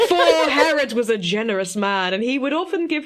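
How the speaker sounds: high, hammy mock king voice; Herod. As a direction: ham up a pompous king, laughing. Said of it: "he interrupts it with".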